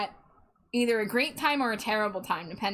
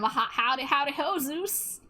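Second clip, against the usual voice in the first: put-on Southern accent; 3 semitones higher than usual. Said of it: "Join in on the Southern accent".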